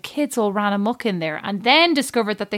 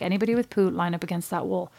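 weirdly calm; 2 semitones lower, 6 dB quieter than usual. Retold or imitated. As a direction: give the order softly, unfazed. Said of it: "weirdly calm in these moments".

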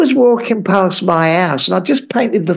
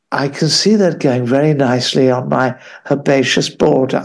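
mock Monty Don; 6 semitones lower than usual. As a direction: savour each word like a TV gardener. Mocking Monty Don the gardener.

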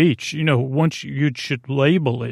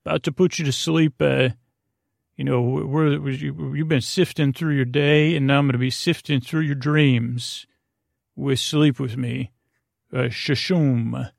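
mock hype podcast intro. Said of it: "I could just replay the same intro or go".

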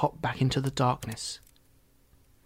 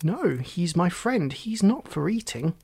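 put-on mildly cross boy, higher pitch; 5 semitones higher, slower than usual. Boy defends his cat to the frog, cross. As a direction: protest firmly, drawing out the first words. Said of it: "Oliver said crossly".

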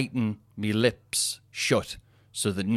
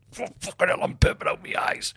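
hushed aside; 9 semitones higher than usual. Real, not acted. Aside while laughing.

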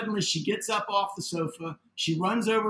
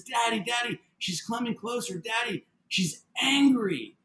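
put-on high child voice, slow on the last words; imitating young daughter; 5 semitones higher than usual. Daughter warns father the lady is nearing, imitated high voice. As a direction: imitate a child warning Dad, pitched up. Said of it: "she says".

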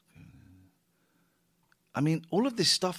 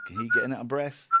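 squeaky teasing; faster than usual. Acted. Teasing the person doing the bed.

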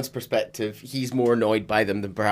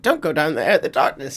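higher mock warning; imitating warning lady; 5 semitones higher, 4 dB louder than usual. Co-host imitating the lady's warning, mock-alarmed and higher. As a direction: lightly put on an alarmed woman. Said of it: "that lady was like".

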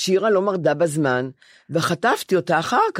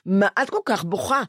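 psychiatrist voice; 3 semitones higher, slower than usual. Retold or imitated. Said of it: "הוא אומר".

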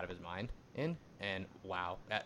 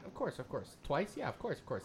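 sarcastic; 5 semitones higher, 3 dB quieter than usual. Real, not acted. Mocking the quarterbacks' interceptions.

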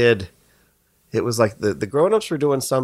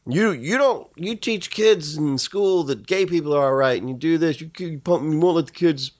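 mock outraged parent; 4 semitones higher than usual. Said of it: "people get so worked up about it 'cause they're like".

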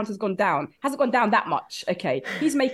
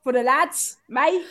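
put-on London lad accent. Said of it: "But London".

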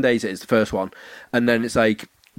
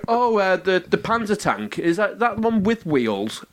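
naive question voice; 5 semitones higher, slower than usual. Retold or imitated. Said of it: "You know, like".

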